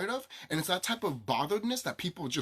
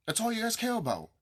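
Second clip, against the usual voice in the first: sarcastic jab; 8 semitones higher, 4 dB quieter than usual. Real, not acted. Sarcastic repeat, higher.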